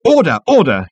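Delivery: loud, yapping call for order; yapped. A narrator's reading. Management consultant calls for order, yapping. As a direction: yap it in short bursts. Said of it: "yapped the management consultant".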